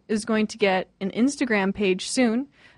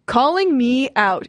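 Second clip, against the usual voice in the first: all-caps message; 3 semitones higher, 4 dB louder than usual. Retold or imitated. Host reads roommate's all-caps call-out, mildly emphatic. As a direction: read it out in mock all caps. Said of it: "all caps".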